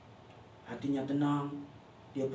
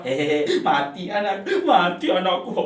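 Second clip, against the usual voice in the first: mock sobbing; 3 semitones lower, 5 dB louder than usual. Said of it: "ibunya sudah menangis".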